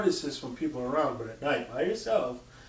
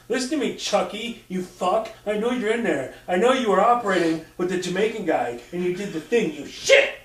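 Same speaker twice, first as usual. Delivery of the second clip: higher, louder mock rage at a toy; mock furious rant; 6 semitones higher, 7 dB louder than usual. Shaking the baby toy and cursing at it, mock furious. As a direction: scold it like a possessed doll, hammed-up.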